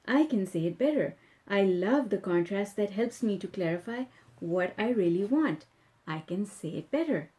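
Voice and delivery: steady, earnest reading of affirmations; calm affirmation read-aloud. Acted. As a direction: read each line as a personal promise. Keeps reading the rampage.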